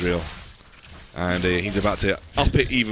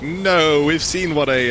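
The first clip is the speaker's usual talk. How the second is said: alarmed shout; 6 semitones higher, 5 dB louder, slower than usual. Retold or imitated. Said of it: "and I was like".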